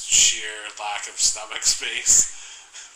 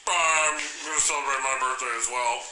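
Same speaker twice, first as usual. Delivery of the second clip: Donald Trump impression; 2 semitones higher than usual. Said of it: "That's my Donald Trump".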